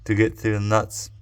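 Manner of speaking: talking around a flashlight in the mouth. Real, not acted. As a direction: mouth full, flashlight held in teeth. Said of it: "I had a flashlight in my mouth".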